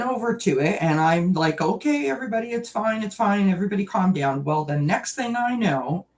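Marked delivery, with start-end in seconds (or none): 1.6-4.4 higher-pitched mock reassurance; retold calming. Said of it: "I'm trying to calm them down".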